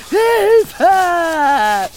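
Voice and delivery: screaming blue murder. Acted. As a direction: scream for help at the ants. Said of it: "Zeta und Mordio zu schreien".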